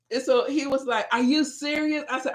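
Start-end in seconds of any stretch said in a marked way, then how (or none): 1.1-2.0 high-pitched mock disbelief; playfully retold incredulity; incredulous husband. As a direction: imitate him questioning her in disbelief.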